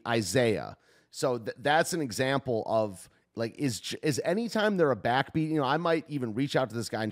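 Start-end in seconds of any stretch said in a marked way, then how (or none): 0.0-0.8 i-ZAY-ah with weight on the middle syllable; stress on second syllable. Shown as a demonstration. Example of an offbeat word, i-ZAY-ah stressed. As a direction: land on the ZAY in Isaiah. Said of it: "that accents the offbeat or the second beat".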